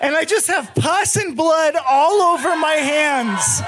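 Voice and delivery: high, slow, shouted frenzy with laughter; frantic retelling. Real, not acted. Telling the audience about smashing roaches, frantic high shouting. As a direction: relive the panic, screaming and laughing.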